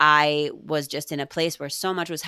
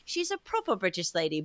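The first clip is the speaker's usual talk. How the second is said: put-on Irish accent; 3 semitones higher, 5 dB quieter than usual. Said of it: "I said it in, like, an Irish accent".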